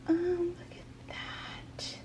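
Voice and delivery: high, slow whisper of wonder; awed whisper. Real, not acted. Finding a little gift in the box, whispering in awe. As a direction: breathe it out in amazement.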